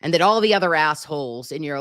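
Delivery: half-mock betrayed rant; exasperated scolding. Real, not acted. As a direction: tell her off like she let you down. Scolding the suspect Donna Sue.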